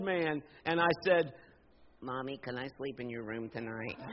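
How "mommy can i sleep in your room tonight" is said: put-on much softer, lower babyish plea; little child voice. Grown son asks mommy in a put-on baby voice. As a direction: whimper like a small kid asking mom. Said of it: "I didn't say it in that voice".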